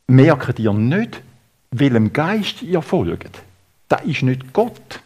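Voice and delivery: measured mock telling-off; acted scolding. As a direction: reprove them firmly, spacing out each phrase. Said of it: "Und schimpft mit ihnen, richtig, richtig".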